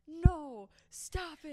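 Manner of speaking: high, loud mock refusal; imitated protest. Friend imitating Kendall refusing customers' praise, mock protest. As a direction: bat the praise away loudly.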